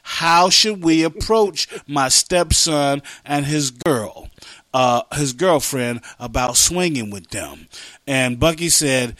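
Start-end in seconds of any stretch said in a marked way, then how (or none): 0.0-7.7 slow, measured question read out; reading a letter aloud. Real, not acted. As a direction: lay out the question slowly.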